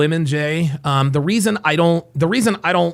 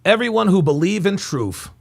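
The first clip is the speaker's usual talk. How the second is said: lightly mimicked speechmaker's cadence; mock his put-on inflections; mocking impression; 2 semitones higher than usual. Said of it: "Do you hear his fake voice inflections?".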